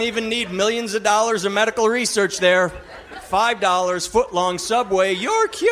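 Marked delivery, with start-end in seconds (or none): 5.1-5.7 high, held mock-miracle cry; soaring, drawn-out comic shout; triumphant proclamation. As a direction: proclaim a cure with hammed-up fervour. Parodies a miracle cure proclamation.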